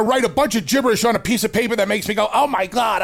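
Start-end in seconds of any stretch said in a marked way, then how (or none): 2.3-3.0 mock outburst. Mock fan reaction to bad promo.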